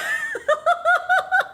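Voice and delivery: high, shrieky laugh; incredulous laugh. Real, not acted. Laughing at the date's absurd question, incredulous. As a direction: burst into high disbelieving laughter.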